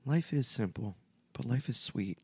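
hushed, dreamy commercial read; soft ad read voice. Retold or imitated. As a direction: sell it softly like a heartfelt ad. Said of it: "they would be like".

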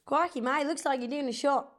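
mock Aussie accent; Australian accent. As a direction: tease in a put-on Australian accent. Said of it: "Mine's quite good".

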